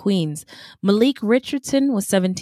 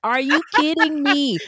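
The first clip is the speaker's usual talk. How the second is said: amazed; 4 semitones higher than usual. Real, not acted. Amazed, higher.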